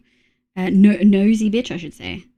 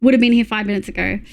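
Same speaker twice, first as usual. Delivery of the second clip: quick Australian 'would have' squashed to 'would've'; Aussie twang; 3 semitones lower, faster than usual. Shown as a demonstration. Streamer showing chat how an Australian says it, Aussie twang. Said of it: "Aussie twang".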